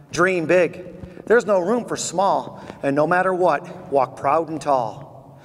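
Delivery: measured rhyming recitation, slowing on key lines; poem recital. Acted. Speaker closing the talk reciting his poem, measured. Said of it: "it goes like this".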